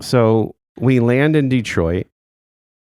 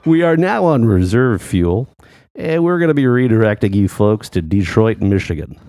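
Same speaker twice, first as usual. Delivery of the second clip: captain announcement. Retold or imitated. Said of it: "The captain comes on and he goes".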